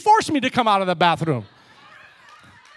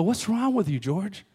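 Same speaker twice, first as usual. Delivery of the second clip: quiet self-rebuke; 3 semitones lower, 6 dB quieter than usual. Retold or imitated. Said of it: "I go, I go".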